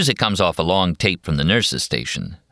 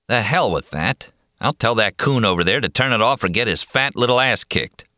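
irritated cowboy; 5 semitones higher than usual. Acted. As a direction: gripe about the racket. McMurphy angry.

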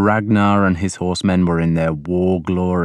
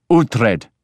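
higher, sudden summons; calling out; 4 semitones higher, 3 dB louder than usual. A narrator's reading. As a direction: call the name abruptly. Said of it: "Ragnar called, making me jump".

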